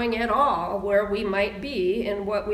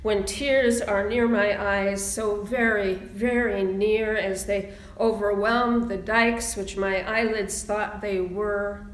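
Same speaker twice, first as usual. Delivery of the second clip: poem reading. Acted. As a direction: let each line land, pausing between.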